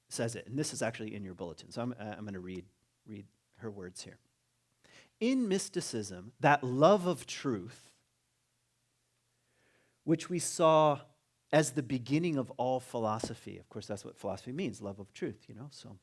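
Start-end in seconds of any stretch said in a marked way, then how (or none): 5.2-13.6 slow, measured reading of a quotation; emphatic, unhurried recitation; reading aloud. Acted. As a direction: read it out deliberately, weighting key words. Reads a quoted passage aloud.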